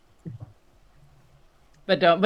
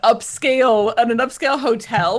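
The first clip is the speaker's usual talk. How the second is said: incredulous; 7 semitones higher, 4 dB louder than usual. Acted. Outraged at meat chunks.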